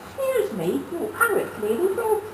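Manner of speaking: polite. Acted. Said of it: "Politely I began".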